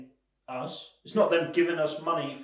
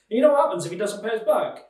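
louder, higher, quick mock lender; imitating a lender's rising relish; gloating lender; 4 semitones higher, 5 dB louder, faster than usual. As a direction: goad like an imagined gleeful loan shark. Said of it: "laughing his head off right now".

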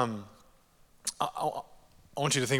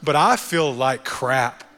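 raised, exasperated complaint, higher and louder; frustrated venting; 4 semitones higher, 6 dB louder than usual. Retold or imitated. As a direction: vent it all out, fed up and stressed. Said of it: "you're like".

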